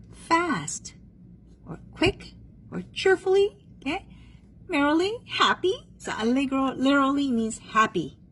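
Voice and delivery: high-pitched, cheery teacher voice; cheerful demo. Shown as a demonstration. Teacher explaining what allegro means, high and cheerful. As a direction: lift it high, acting out happy.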